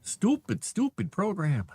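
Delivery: fed-up outburst. Real, not acted. Writer fed up with the AI tool, loud outburst. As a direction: blow up at the software.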